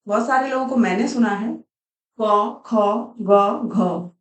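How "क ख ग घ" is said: "क, ख, ग, घ" with a full "a" vowel on each; each letter said with an added "a"; wrong pronunciation demo. Shown as a demonstration. Teacher showing students the wrong way, with a full "a" vowel. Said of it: "wrong है".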